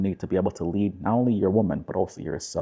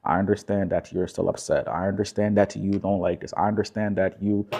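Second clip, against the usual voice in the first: calm acknowledging; 3 dB quieter than usual. Shown as a demonstration. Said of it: "are you seeing how I'm just, like, really just calm".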